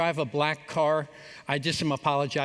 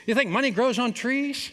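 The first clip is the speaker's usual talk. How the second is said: mock scolding mom; 7 semitones higher than usual.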